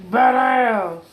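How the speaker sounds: loud, thrilled shout of awe; excited exclamation. Real, not acted. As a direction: blurt it out, amazed and loud. Reacting to a cool machine.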